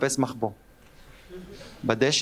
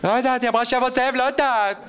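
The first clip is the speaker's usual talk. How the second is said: put-on anxious girl; 8 semitones higher, 3 dB louder than usual. Sister answering, alarmed.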